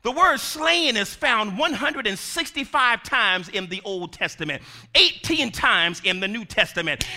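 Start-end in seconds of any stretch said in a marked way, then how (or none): none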